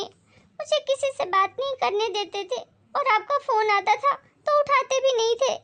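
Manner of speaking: lightly voiced remorseful daughter; distressed daughter. Daughter tells her mother how she escaped, distressed.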